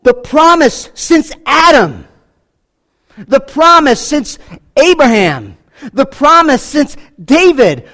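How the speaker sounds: slow, loud, rising preacher's cry; preaching at full force. Acted. Preacher building to the prophets, loud and slow. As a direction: proclaim the promise to the congregation.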